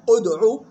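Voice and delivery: أدعو begun on "u", "ud'u"; initial damma. Shown as a demonstration. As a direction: open أدعو with a hamza carrying u. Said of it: "بهمزة مضمومة". (أدعو بهمزة مضمومة)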